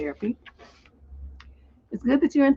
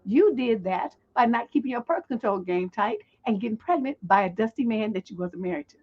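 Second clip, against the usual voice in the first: ordinary delivery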